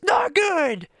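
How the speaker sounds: put-on high whiny kid voice; mock whiny little boy; child's voice. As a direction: pitch up to a pouty child. Dad quotes sulking son.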